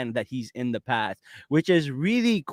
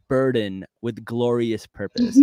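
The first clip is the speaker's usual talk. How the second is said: Loki quote; 3 semitones lower, slower than usual. Retold or imitated. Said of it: "I love that line".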